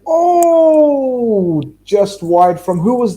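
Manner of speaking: sudden high shout at a near miss; loud yelp at the TV; excited shout. Real, not acted. Near miss while watching match.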